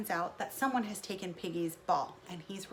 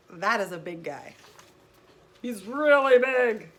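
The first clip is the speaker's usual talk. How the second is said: scared Gerald; 10 dB louder than usual. Acted. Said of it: "Gerald is scared".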